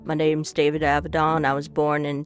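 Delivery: a hint of Texas in a mock obituary; a light Southern accent, as a bragging Texan. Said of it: "it's going to Southern".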